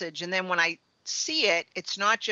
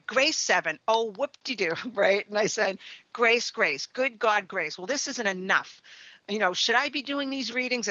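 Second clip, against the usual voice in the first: mildly raised, exasperated complaining at the car; frustrated rant; 3 semitones higher than usual. Retold or imitated. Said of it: "and I'm frustrated".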